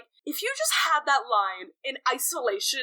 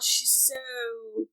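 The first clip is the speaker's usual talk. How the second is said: mock swooning; much slower than usual. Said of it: "fetishizing vibes where he's like".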